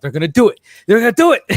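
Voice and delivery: can't contain it, urging your friend; excited whisper growing into a thrilled yell; building excitement. Retold or imitated. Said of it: "I was literally going".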